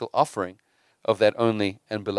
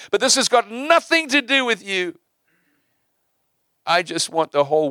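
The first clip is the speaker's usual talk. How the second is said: higher, louder voice of God, proclaiming; God speaking, raised and emphatic; 6 semitones higher, 3 dB louder than usual. Acted. God telling Abraham his plan, in a high, loud proclaiming voice. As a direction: boom it out as God declaring his purpose. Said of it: "And God says".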